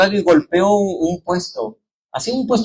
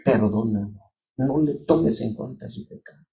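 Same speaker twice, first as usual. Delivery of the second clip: low, softer plea of mercy; Christ forgiving; 5 semitones lower, 7 dB quieter than usual. Retold or imitated. Christ asking forgiveness for his killers, low and tender. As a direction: pray it gently, forgiving. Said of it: "decía".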